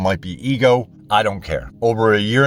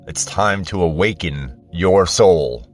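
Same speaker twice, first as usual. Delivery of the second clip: higher self's voice. Pretend. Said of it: "my higher self's voice talking".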